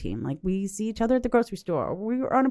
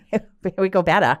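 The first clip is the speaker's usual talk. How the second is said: calling out a batter cheer; 4 dB louder, faster than usual. Retold or imitated. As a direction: cheer it like at the ballfield. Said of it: "You have a unique cheer".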